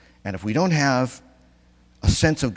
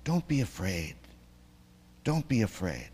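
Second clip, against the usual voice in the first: soft, reassuring; calm them softly; Jesus soothing his followers, softly; gentle reassurance; 6 dB quieter than usual. Retold or imitated. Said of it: "Jesus says on the mountaintop".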